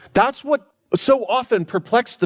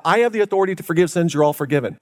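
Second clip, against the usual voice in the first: mock boast; faster than usual. Shown as a demonstration. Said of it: "I can say that to you all right now".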